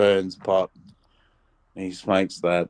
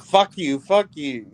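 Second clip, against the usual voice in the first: higher, mock snapping back; retold angry retort; 7 semitones higher than usual. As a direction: snap back at the hecklers. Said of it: "he's like".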